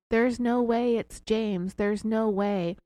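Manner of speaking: slow mock-sobbing denial; retold crying out. Sherry insisting to investigators it's not James, slow mock cry. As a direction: drag out the no way, half-hearted wail. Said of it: "and Sherry cried out again".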